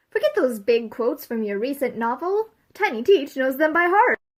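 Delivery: ordinary talk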